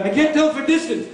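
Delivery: high, voiced old Jewish man, laughing through; hasidic guy voice. Father answering the driver in a high joke voice. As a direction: play the nervous Hasidic father.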